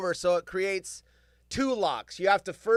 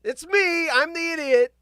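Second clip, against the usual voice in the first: high, slow, loud mock announcement; self-mocking confession; 8 semitones higher, 3 dB louder than usual. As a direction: own it with sheepish comedy. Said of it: "and I go".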